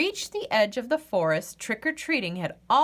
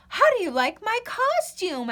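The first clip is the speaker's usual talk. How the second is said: higher, proud costume question; Thistle voice; 11 semitones higher than usual. Acted. Thistle shows off the costume, high and proud. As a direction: show off the costume. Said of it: "asked Thistle".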